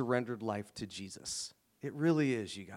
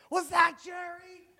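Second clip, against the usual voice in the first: very high, drawn-out, loud question; imitated teenage daughter; 6 dB louder than usual. Teenage daughter asking dad about the neighbor, high-pitched incredulity. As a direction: mimic an incredulous teen girl in falsetto. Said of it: "my sixteen-year-old daughter, she's like".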